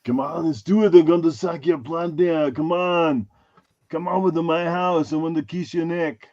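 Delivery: lightly voiced vampire with a hint of Arnold; a touch of a hammed-up vampire, not far from his own voice; mock Dracula. Host teasing the chat as a mock Dracula. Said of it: "a cross between Dracula and Arnold".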